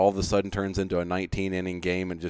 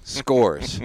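said in audible air quotes; skeptical, as if quoting; air-quoted; 3 semitones higher than usual. Shown as a demonstration. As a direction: set the word apart with mock doubt. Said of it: "I've got the air quotes going".

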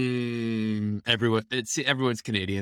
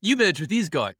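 higher, lightly put-on Australian accent; a hint of bad Australian; mock Australian accent; 5 semitones higher than usual. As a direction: echo it in a playful Aussie accent. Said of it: "that's a bad Australian accent".

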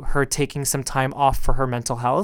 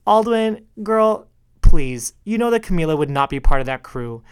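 imitating a friend's playful dismissal, pitched up; a hint of a sassy friend going girl please; teasing friend's mock protest, lightly voiced; Russell. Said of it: "I can hear him say right now".

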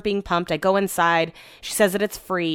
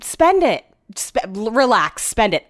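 exasperated urging; 3 semitones higher, slower than usual. Retold or imitated. Urging stingy husband to spend.

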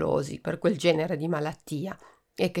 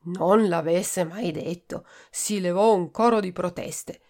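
ordinary delivery

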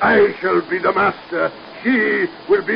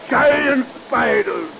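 gloating villain; 6 semitones higher, slower than usual. Acted. Mad scientist gloating over spiders.

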